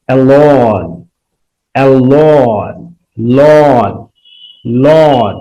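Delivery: অ্যালন stretched slowly, then just লন, with a long vowel into "n"; drawn-out rhyming ending. Shown as a demonstration. Teacher matching alone with sun for students, drawn-out ending. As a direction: draw out অ্যালন and isolate লন as its sounding end.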